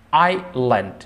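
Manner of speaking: আইল্যান্ড with no S sound; silent S. Shown as a demonstration. Teacher models a word with silent S, আইল্যান্ড said without S. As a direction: say আইল্যান্ড in two careful parts, S left out. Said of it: "এস এর উচ্চারণ হবে না".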